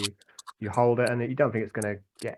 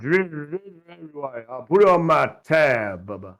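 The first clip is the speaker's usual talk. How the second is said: put-on hammered, loud, pitched-up drunken voice; 6 semitones higher, 8 dB louder than usual. Narrating a scene, the speaker voices the bounty hunter, sounding drunk. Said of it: "he looks quite hammered".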